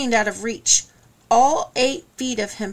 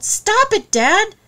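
much higher, louder shout to Dad; desperate shout; 10 semitones higher, 6 dB louder, slower than usual. A narrator's reading. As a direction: scream at him to stop. Son begging father amid struggle.

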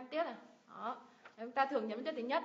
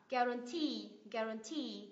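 "guarantee" as gua-ran-TEE, last syllable held; teacher's model of "guarantee", weight on TEE; stress on final syllable; slower than usual. Shown as a demonstration. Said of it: "nhấn vào ngay cái âm tiết đấy".

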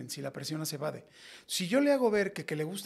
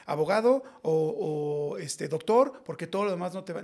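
mock strict parent; 4 dB louder than usual. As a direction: lay down the law like a parent of that generation. Parent's old advice, voiced.

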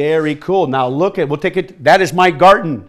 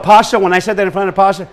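normal talking voice

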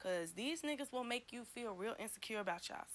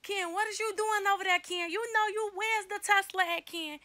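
high, loud playful scolding; goofy mock call-out; 10 semitones higher, 11 dB louder than usual. Vlogger pretends to catch Ken cheating on video, goofy loud scolding. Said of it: "I'd be like".

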